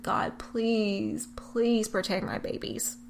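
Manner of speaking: a soft, breathless whisper, barely voiced; pleading under her breath to God before going under; whispered prayer. Mother going under anesthesia prays for her babies, whispered. Praying as anesthesia takes hold.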